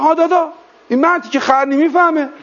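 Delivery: a hint of an Isfahani man's complaint; isfahani accent. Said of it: "با لهجهٔ اصفهانی".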